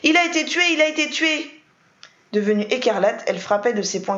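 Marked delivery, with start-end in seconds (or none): 0.0-1.5 high screaming, much louder; frantic repeated scream; hysterical screaming. A narrator's reading. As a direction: shriek it again and again.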